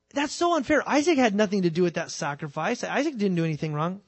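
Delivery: high, indignant protest; imagined objector. Retold or imitated. An imagined listener objects to the preacher, high and indignant. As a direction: protest the unfairness like a doubter. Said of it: "But you might think".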